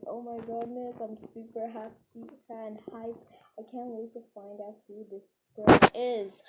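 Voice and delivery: imitated excitement, bursting loud at the end; retold excitement. Storyteller quoting the boy who found a note, mock excitement building to a yell. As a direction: build from easy retelling to a loud finish. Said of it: "very excited".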